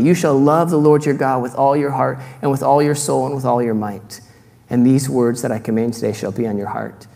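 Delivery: solemn public reading of scripture. Acted. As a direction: read the verse out like a proclamation. Reads Deuteronomy aloud.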